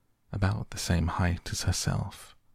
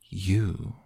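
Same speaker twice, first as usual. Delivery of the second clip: contemptuous. Acted. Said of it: "said the caterpillar contemptuously".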